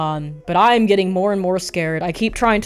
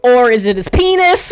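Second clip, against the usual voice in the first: panicked shout; 9 semitones higher, 6 dB louder than usual. Retold or imitated. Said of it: "And I'm like".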